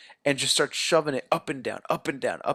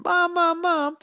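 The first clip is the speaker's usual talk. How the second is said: mock scream; slower than usual. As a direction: imitate a teenage girl screaming for her mother. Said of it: "just screaming".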